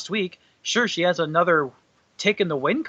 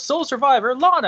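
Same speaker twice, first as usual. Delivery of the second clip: higher, louder ring-announcer call; mock announcer; 9 semitones higher, 4 dB louder than usual. Imitating the announcer naming Lana the winner, mock ring call. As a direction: belt out the winner like a light parody announcer. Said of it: "the announcer goes".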